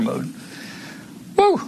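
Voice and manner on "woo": breathless woo. Real, not acted. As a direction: blow out a relieved woo. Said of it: "I'm out of breath".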